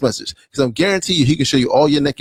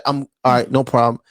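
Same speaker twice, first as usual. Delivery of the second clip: lower, easygoing, unbothered tone; calm cool reply; 4 semitones lower than usual. Retold or imitated. Man calmly telling his date to rest, lower easy tone. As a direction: keep it chill and reassuring. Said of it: "he would have been sensible and say".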